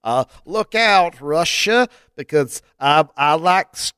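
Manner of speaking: slow hammed-up Irish accent, rising at the end; mock Irish brogue, drawn out. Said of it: "I wanna hear some more".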